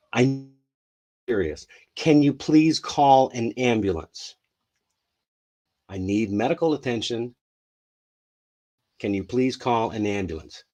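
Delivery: measured, serious plea; calm urgent request. Shown as a demonstration. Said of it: "Don't stress out".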